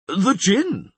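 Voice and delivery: high, loud alarmed call; shouted. Acted. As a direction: cry out at the sky. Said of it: "shouted Crep".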